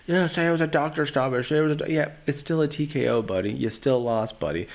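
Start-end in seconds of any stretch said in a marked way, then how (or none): 0.0-3.5 higher, mildly mocking yell. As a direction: taunt him back, half-shouting. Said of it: "he's yelling".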